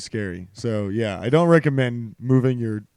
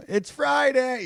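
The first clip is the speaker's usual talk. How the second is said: mock intro; 12 semitones higher, slower than usual. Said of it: "starting the show with".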